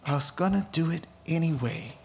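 the Lord, gentle echo. Retold or imitated. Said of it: "The Lord is like".

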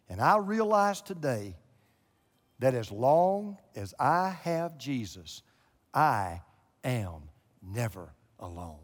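understated reverent quote; slow tender testimony. Retold or imitated. Quoting Alma's testimony, slowing down.

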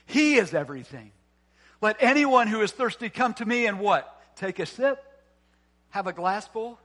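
emphatic preaching. Real, not acted. Preaches at full force.

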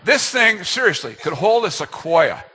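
excited disbelief at the gift; amazed. Real, not acted. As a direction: marvel at how massive it is. Amazed at huge tree stand.

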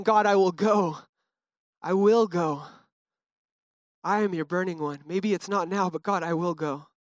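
calm, trusting worship line; surrendered. Retold or imitated. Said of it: "a little bit different of a heart posture".

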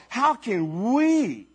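very slow, lightly voiced doubt; doubting disciple. Disciple pondering aloud to his friends. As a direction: drag out the doubt on "we". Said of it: "the disciples mumbling to each other".

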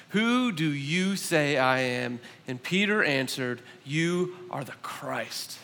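measured, solemn Bible reading; a careful reading of the Gospel of Mark; scripture reading. Acted. Scripture reading before sermon.

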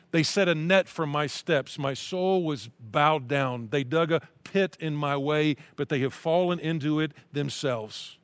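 slow, earnest reading of a psalm; scripture reading. Acted. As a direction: read it as a heartfelt prayer.

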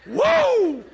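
high, loud laughing whoop; excited whoop. Real, not acted. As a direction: cheer with delight at the joke. Delighted exclamation after bird story.

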